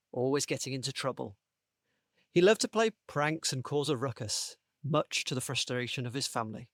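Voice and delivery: measured read-aloud storytelling; story narration. Acted. Host reading his story pitch to the panel, story narration. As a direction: tell it like a children's story.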